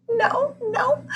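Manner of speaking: high, tearful no; sniffling. Acted. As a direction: sniffle through it. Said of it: "sniffled Miss Turner".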